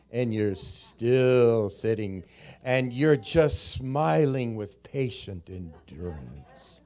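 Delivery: slow, smiling mock calm at a green light; softening into smug calm; mock patience. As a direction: drag it out like a saint in traffic.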